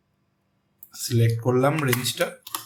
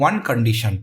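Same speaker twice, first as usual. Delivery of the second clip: one said with weight, lower and firmer; stress on one; 4 semitones lower, much slower than usual. Shown as a demonstration. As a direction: lean on the word one. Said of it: "এখানে একটি শব্দটির উপরে জোর দেওয়া হচ্ছে". (one শব্দে জোর দিয়ে বলা)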